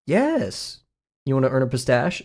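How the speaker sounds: reward the parrot, imitating its owner; imitated bird trainer. Streamer quoting a trainer rewarding Apollo, mock praise. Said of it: "Apollo the, the African Gray".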